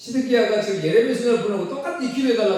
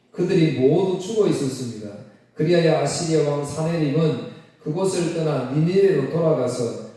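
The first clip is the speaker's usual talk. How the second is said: measured, even read-aloud delivery; scripture reading; 2 semitones lower than usual. Real, not acted. Preacher reads the night of Assyria's defeat to the congregation, measured scripture reading.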